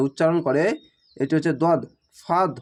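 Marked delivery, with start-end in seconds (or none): 2.2-2.5 ফাদ with the heavy দদ, not a light দাল; correct dod sound. Shown as a demonstration. Teacher corrects how the দদ in ফাদ is sounded. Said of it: "এরকমভাবে হবে".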